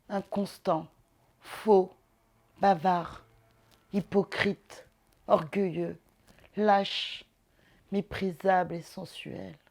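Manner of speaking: measured declamation with pauses between items; literary recitation. Acted. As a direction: recite it word by weighty word, falling away at the ends. Recites a passage by Musset.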